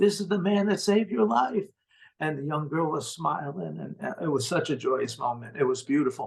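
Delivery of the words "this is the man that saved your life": sudden, loud, high-pitched shout. Retelling how the girl's brother popped out of bed: retelling a yell. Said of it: "he starts yelling".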